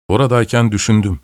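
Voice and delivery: ordinary delivery, nothing marked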